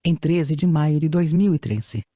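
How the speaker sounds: robotic text-to-speech voice; even synthetic reading voice. Real, not acted. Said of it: "com a utilização de voz sintetizada". (voz sintetizada antiga)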